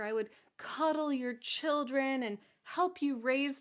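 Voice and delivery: hammed-up fatherly sorrow; lamenting king. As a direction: lament like a doting storybook father. King laments losing his daughter.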